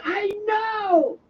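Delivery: high, exasperated mock outburst; retold irritated yell; exasperated retort. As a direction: cut him off in a high, acted huff.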